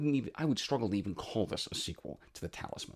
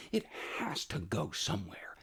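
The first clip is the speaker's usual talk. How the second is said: whispering; 6 dB quieter than usual. Retold or imitated. Despairing inner thought, whispered.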